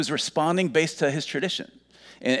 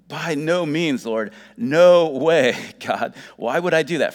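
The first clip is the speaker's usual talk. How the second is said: emphatic refusal, louder and drawn out on "no way"; protesting Peter; 3 semitones higher, 6 dB louder than usual. Acted. Peter refusing the voice of God, in emphatic protest. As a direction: push back in raised, incredulous protest. Acted refusal of God's command.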